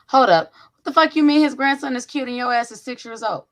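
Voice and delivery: loud disbelieving mom rant; mock outrage. Real, not acted. Mom reacts to daughter's crush.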